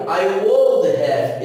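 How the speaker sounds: "I would have" said slowly, "would" stressed; slow teacher model. Shown as a demonstration. Teacher drilling the class, slow model. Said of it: "Eu teria".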